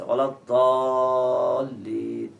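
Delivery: ওয়ালা দাল্লিন whispered very slowly, clear d. Shown as a demonstration. Teacher imitating the imam's clear recitation, whispered. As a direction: breathe it out slowly with a crisp d in দাল্লিন. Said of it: "একদম স্পষ্ট উচ্চারণ করেছে".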